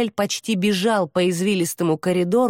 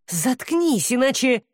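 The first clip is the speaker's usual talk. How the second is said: higher, clipped warning; threatening; 7 semitones higher, slower than usual. A narrator's reading. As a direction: warn her to shut up or else. Demon threatens Hesti.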